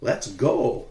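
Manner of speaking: "go" pushed harder, like a command; stress on GO. A narrator's reading. The speaker recalls how Filipinos say it, stress on "go". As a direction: land firmly on "go". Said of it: "with the emphasis on the last word".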